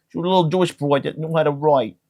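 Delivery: a hint of a Jewish accent, mildly put on. Shown as a demonstration. Comic describing Anne Frank in a light Jewish accent. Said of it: "I don't know why I got Jewish".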